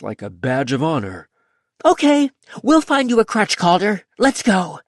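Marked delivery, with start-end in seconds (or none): 1.8-4.8 put-on high, bossy child voice; bossy little girl. A narrator's reading. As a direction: boss them around like a little girl.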